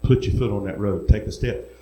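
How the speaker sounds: lightly voiced low urging; the Lord. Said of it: "He said".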